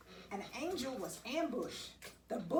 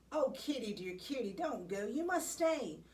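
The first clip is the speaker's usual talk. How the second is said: calling out; 2 semitones higher than usual. Retold or imitated. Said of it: "we shouted and cried".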